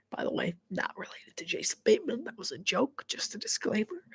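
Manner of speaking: soft unvoiced whisper; whispered aside. Real, not acted. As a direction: lean in and whisper the disclaimer. Whispered aside during live commentary.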